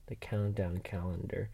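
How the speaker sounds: whispered reading of a list item; whispering the app name to yourself. Real, not acted. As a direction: read it under your breath, unvoiced. Whispers search result while reading.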